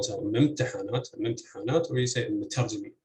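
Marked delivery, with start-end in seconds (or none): 0.2-1.9 ممتحنات stressed on its first heavy syllable after the initial one; stress on first heavy non-initial syllable. Shown as a demonstration. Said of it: "the first heavy syllable". 2.3-2.9 مترجمين stressed on its first heavy syllable after the initial one; stress on first heavy non-initial syllable. Shown as a demonstration. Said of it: "with stress on the".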